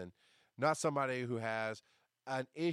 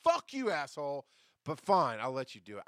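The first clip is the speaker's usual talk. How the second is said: grudging anger; 3 semitones higher, 5 dB louder than usual. Retold or imitated. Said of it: "and I was like".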